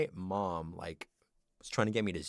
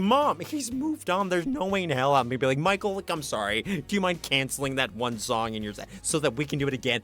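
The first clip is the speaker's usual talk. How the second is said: high, loud exasperated protest; screaming; 6 semitones higher, 6 dB louder than usual. Retold or imitated. Exasperated child arguing with pushy mom at a concert, screaming. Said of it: "at one point I was screaming".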